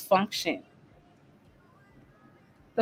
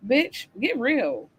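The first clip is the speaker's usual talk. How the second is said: dismissive; 2 semitones higher, much slower than usual. Real, not acted. Dismissive retort to mothers.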